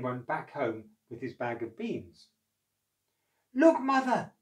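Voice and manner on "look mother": high, loud call to Mother; excited boy calling his mother. Acted. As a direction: call out to her across the house. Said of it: "he called".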